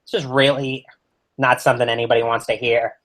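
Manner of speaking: talking through a mouthful of Pop-Tart; mouth full. Real, not acted. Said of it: "I am choking on this Pop-Tart".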